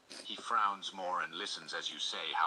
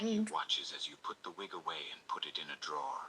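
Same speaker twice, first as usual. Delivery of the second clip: whispered narration. A narrator's reading. Narrator telling the listener's story, whispered. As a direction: whisper the narration close to the ear.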